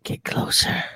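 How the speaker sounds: breathy creepy industrial-band whisper. Pretend. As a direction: whisper it like a creepy rock song. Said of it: "doing the Nine Inch Nails thing".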